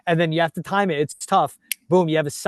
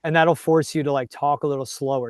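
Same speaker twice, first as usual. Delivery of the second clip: slowing down to the tap; slowed-down talk. Real, not acted. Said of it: "It's even doing that to me right now".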